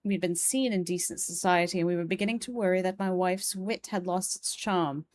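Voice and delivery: measured, formal reading of a letter. Acted. Gentleman writes to friend Herbert about a parlor game, formal letter reading. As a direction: read an old letter aloud with poise. Reads an old letter aloud.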